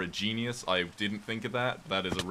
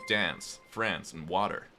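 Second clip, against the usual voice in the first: dance, France with a flat short a, water with an r; American accent; slower than usual. Shown as a demonstration. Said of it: "The Americans would say".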